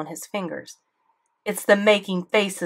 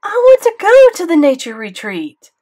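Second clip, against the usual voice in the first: near tears; 12 semitones higher, 14 dB louder than usual. A narrator's reading. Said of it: "really was about to cry".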